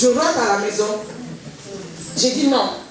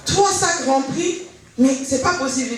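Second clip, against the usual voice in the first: pitched way up, slow and incredulous; a stunned lady who can't believe the gift; astonished disbelief; 5 semitones higher than usual. Retold or imitated. Lady stunned by three full bags. (étonnement incrédule, voix très haute et lente)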